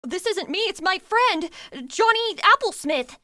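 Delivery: hammed-up role-play introduction; larping YouTuber. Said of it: "the whole larp and the role play".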